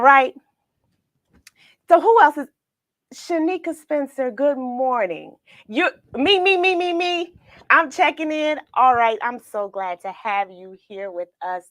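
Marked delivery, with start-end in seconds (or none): 5.7-7.3 high, bouncy repeated me; playful sing-song. Retold or imitated. Host reading a viewer's playful comment, high and bouncy. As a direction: read the comment like a child.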